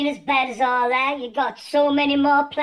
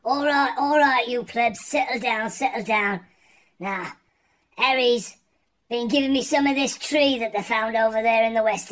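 King of England; 2 semitones lower than usual. Acted. A lightly voiced King of England rallying his lads. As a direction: address the plebs like a pompous king.

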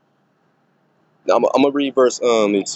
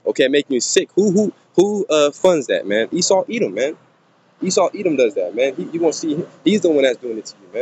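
heated preaching; 4 semitones higher than usual. Real, not acted. Heated rant against Esau Edom.

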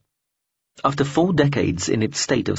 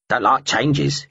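slow grumbling crow; 3 semitones higher, slower than usual. Acted. Bird character voice.

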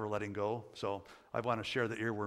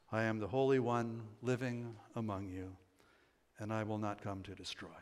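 Scripture reading. Acted. Preacher reads God's words from Hosea to congregation, solemn Scripture reading. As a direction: read God's vow in measured phrases, easing down at the end.

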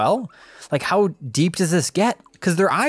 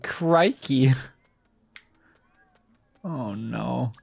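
whispered crikey; 4 semitones lower, 4 dB quieter, much slower than usual. Real, not acted.

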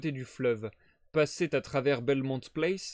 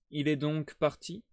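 voix déçue. Acted. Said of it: "dit Holmes d'une voix déçue".

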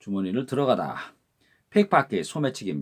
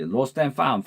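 lost and found run together quickly as one word; quick, linked lost and found; fast linked; 3 semitones higher than usual. Shown as a demonstration. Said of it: "빨리 하면 lost and found로 들립니다".

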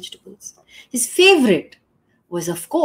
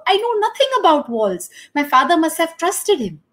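high, louder pleading merchant; begging and pleading; 7 semitones higher, 5 dB louder than usual. Acted. Merchant begs the king, high-pitched pleading. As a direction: plead for your life and blame another. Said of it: "begging and pleading for his life".

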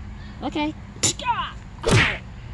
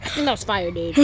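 whisper; 9 semitones lower, 4 dB quieter than usual. Real, not acted. Awed reaction to fire power.

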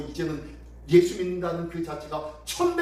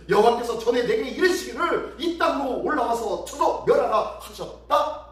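emphatic, raised declaration; invading general's proclamation; 4 semitones higher, 4 dB louder than usual. Acted. General claims God's order to destroy, forceful proclamation. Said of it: "라고 얘기합니다".

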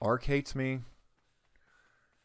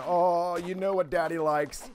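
mock flirty; 5 semitones higher, 6 dB louder, slower than usual. Flirting with a tree.

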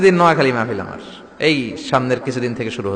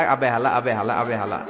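put-on Old Dhaka slang; 5 semitones lower, 7 dB quieter than usual. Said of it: "ঢাকায় গেলে আবে হালা".

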